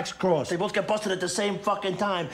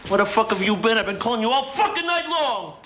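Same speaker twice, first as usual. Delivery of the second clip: louder, rising to a higher furious yell; angry yell; 5 semitones higher, 3 dB louder than usual. Acted. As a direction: tear into him for being missing all night. Boss confronting late arrival.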